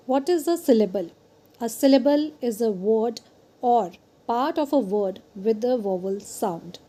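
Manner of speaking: reads the definition out word by word, slowly; careful, deliberate classroom reading; slow slide reading. Acted. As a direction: dictate it slowly so students can follow.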